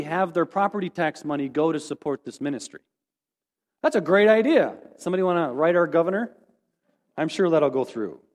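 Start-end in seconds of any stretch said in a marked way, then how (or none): 3.8-8.2 mock enthusiasm sinking into dry doubt; a little sarcastic. Real, not acted. Speaker joking to the congregation about writing the governor, sarcastic. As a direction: praise the idea with tongue in cheek. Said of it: "that was a little sarcastic".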